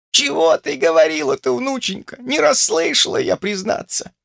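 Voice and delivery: put-on high, mumbling old crone voice; an old woman who can't hear, mumbling. A narrator's reading. Old grandmother mumbling to granddaughter, high and mumbling. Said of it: "прошамкала старуха".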